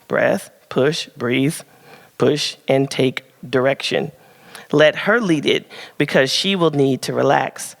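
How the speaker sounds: measured, deliberate reading to an audience; read-aloud prepared piece. Real, not acted. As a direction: read it out with careful phrasing. Reads prepared advice aloud.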